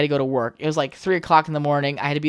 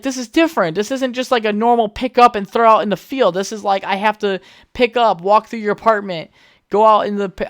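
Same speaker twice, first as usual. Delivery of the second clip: anxious protest; 5 semitones higher than usual. Retold or imitated. Friend protests, retold.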